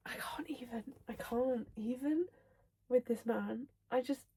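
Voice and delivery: too overcome to get the words out; overwhelmed fangirling. Real, not acted. Overcome by the book she reads.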